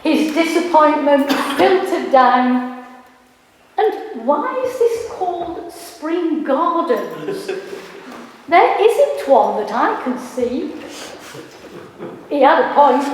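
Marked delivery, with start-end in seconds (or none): 3.8-10.7 lightly put-on southern English accent, rising complaint; a hint of a grumbling southerner. Boyfriend complains about Spring Gardens, mild southern accent. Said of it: "I can't do a southern accent".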